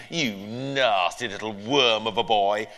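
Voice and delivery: slow, nasal sneer; sneering neighbour. Acted. Neighbour insulting the boy as he pushes in, slow sneer. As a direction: spit out the insult slowly.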